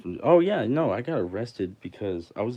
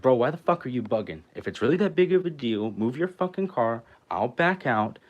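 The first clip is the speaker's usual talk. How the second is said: raised, heated retort; exasperated arguing; 4 semitones higher, 5 dB louder than usual. Retold or imitated. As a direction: re-enact telling off a driver who blocks you. Retold quarrel over blocked car.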